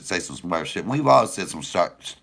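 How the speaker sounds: normal talking voice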